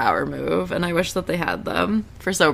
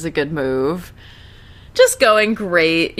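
sarcastic; slower than usual. Real, not acted. Sarcastic comment on failing.

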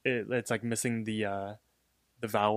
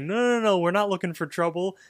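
higher-pitched mock protest, easing off; half-hearted yell back at a rival; retold yell; 5 semitones higher than usual. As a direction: imitate a hurried yelled denial, starting high. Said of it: "Mordecai yells back".

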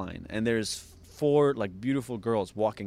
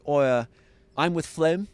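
higher-pitched put-on Australian accent; tipsy bluff in an Australian accent; 6 semitones higher, 4 dB louder than usual. Tipsy guy bluffing the woman at the door, Australian accent. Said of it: "an Australian accent 'cause he's from Australia".

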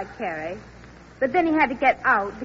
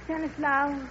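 high, loud melodramatic goodbye; Tarzan's mate saying goodbye, over the top; hammed-up farewell; 6 semitones higher, 7 dB louder, slower than usual. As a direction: overplay the tragic parting. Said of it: "Ann, you be Tarzan's mate".

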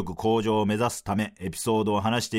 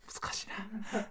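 ordinary talk

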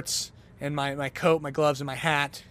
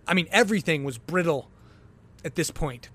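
ordinary delivery

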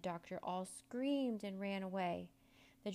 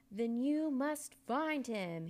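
loud, higher, slow and drawn-out order; menacing command; 5 semitones higher, 7 dB louder, much slower than usual. A narrator's reading. Angry magician orders the boy to find George, menacingly. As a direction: stretch each word into a threat. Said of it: "he hissed".

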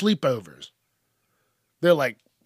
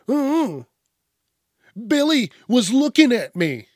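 higher whiny tattletale voice; tattling kid; 7 semitones higher than usual. Retold or imitated. Child tattling to teacher, mock whiny voice. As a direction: play the child telling on Billy.

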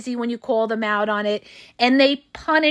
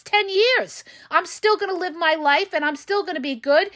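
higher-pitched, worked-up defiant retort; emotional defiance; 4 semitones higher than usual. Acted. Standing up to someone giving the silent treatment, emotional and defiant. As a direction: stand strong and throw it back at them. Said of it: "I'm getting emotional, you guys".

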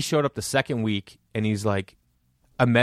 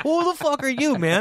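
much higher hammed-up indignation; mock indignant Jay. Imitating the booker's outrage at a newcomer, high and hammed-up.

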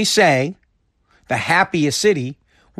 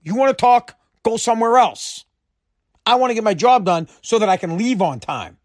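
annoyed coworker retort; 5 semitones higher than usual. Retold or imitated. A worker fed up with chatty colleagues, higher irritated brush-off. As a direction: tell the chatty coworker to go away. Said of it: "You're like".

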